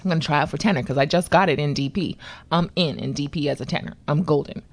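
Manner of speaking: low, cocky self-assurance, lightly played; acted boldness. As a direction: state it like you are already in. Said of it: "I'm all bold".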